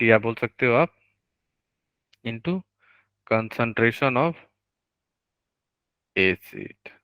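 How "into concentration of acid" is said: slow dictation. Real, not acted. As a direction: give students time to write each word. Teacher dictates formula for notes.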